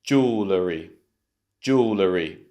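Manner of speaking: Jewellery as JOO-luh-ree; Jewellery with a falling "ree" ending; model pronunciation. Shown as a demonstration. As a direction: model Jewellery clearly for repeating. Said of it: "Let's try and say it together".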